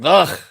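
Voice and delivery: throaty imitation of a Russian grunt; mock Russian grunt. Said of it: "They're always grunting".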